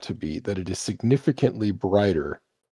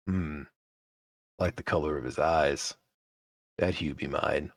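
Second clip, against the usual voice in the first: tall one; 2 semitones lower than usual. Acted. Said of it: "The tall one leans forward".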